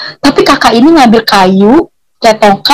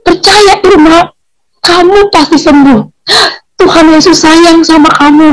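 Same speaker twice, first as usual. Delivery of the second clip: reassuring; 5 semitones higher than usual. Retold or imitated. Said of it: "dia meyakini saya".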